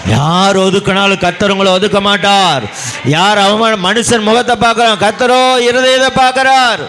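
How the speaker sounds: high preaching voice, rising to a ringing close; impassioned preaching. Acted. Preacher assuring the congregation God will not reject them, impassioned preaching.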